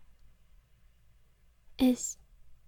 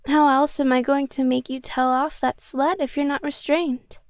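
louder, sweetly menacing; yandere menace; 4 dB louder than usual. Acted. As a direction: turn possessive and threatening. Yandere reveals handcuffs, jealous.

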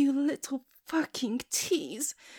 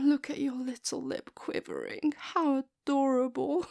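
ordinary delivery

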